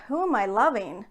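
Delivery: retold baffled question to the mirror; genuinely not getting it, lightly acted; puzzled. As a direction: swoop up and down in mild bewilderment. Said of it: "Like, I didn't get it".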